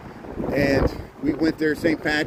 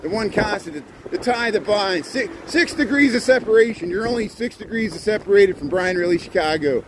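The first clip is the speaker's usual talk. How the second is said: shouting over wind; 5 semitones higher than usual. Real, not acted. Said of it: "I'm screaming over the wind".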